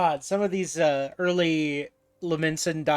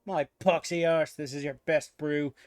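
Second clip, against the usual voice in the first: put-on pirate accent; 2 semitones lower than usual. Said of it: "pirate voice".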